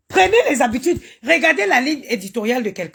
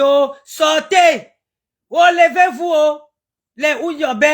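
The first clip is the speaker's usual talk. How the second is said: calling the ancestors. Real, not acted. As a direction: cry out to the ancestors to come down. Summoning ancestors to rise.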